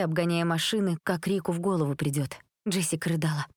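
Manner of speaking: usual speaking voice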